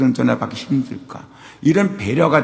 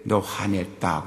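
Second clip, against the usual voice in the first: quiet inner voice; 4 semitones lower, 7 dB quieter, slower than usual. Retold or imitated. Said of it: "깊은 속에서 얘기인데".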